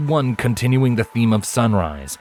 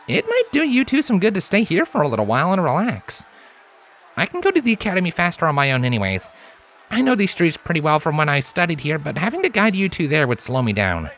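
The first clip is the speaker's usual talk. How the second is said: higher, relaxed stallion voice; a grinning friend talking her round; Lens, easygoing stallion; 8 semitones higher than usual. A narrator's reading. Lens urging Scarlet to rest, easygoing.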